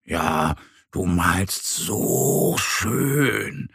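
slow, drawn-out admiring little bear; gushing admiration. A narrator's reading. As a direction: stretch it out in admiration. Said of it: "schwärmt Mo".

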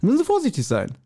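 a hint of a fussy policeman correcting you; cautioning policeman. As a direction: play the officer lecturing gently. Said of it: "Dann hab ich gesagt".

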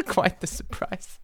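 breathy whisper, slow; whispered title. Shown as a demonstration. Whispering the new title to the audience. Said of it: "that's gonna be the title".

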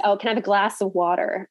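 imitated American accent with a rolled R in "water"; put-on American accent. Shown as a demonstration. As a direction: say "water" the American way, sounding the final R. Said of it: "put on an accent 'cause it's easier".

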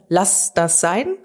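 firm command. Shown as a demonstration. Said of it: "drei Wörter in einem Satz".

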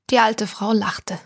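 ordinary delivery, nothing marked

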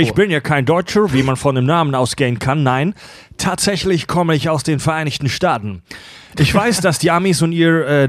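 American accent in German. Shown as a demonstration. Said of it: "lies es mit amerikanischem Akzent vor".

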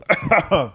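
throat-clearing cough. Real, not acted. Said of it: "ich hab irgendwas im Hals".

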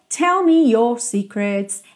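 "Tell me your secrets" slowly and clearly; slow lyric demo. Shown as a demonstration. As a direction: stretch each word of the lyric. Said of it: "lyric demo".

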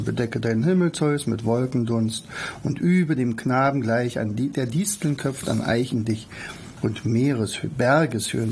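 brisk, unperformed first reading of verse; casual read-through. Shown as a demonstration. Teacher shows first read-through of the poem, casual read-through. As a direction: read it through quickly, stumbling and correcting yourself. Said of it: "vor durchgelesen".

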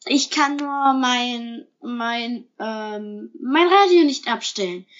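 halting, made-up excuse; feigned undertone. A narrator's reading. Herr Lorenzo explains away the animal noises, with feigned undertone. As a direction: stall on the words, then finish with pretend conviction. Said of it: "mit gespieltem Unterton".

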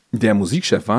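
words pushed out round a burp; a small burp mid-sentence; talking while burping. Real, not acted. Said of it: "ich hab grad ein Bäuerchen gemacht".

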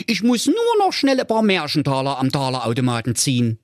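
high goofy cartoon voice; Holger Honk's voice. A narrator's reading. Honk thinks about flowers for his mother, high goofy voice. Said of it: "dachte er sich bei seinem wilden Ritt".

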